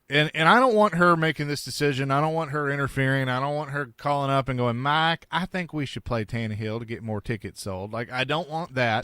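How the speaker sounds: a hint of a tipsy Texas owner; Texas drunk owner accent. Host mimicking the team owner's Texas drunk accent. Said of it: "That's a good accent right there of an owner".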